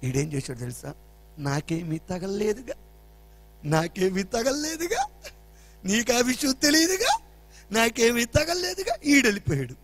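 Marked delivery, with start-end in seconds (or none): 1.4-9.0 slow, singsong gloating "నాకేమీ తగలలేదుగా" with rising ends; teasing taunt. Retold or imitated. Son taunting his sister that he felt nothing, slow singsong. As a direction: tease the sister slowly.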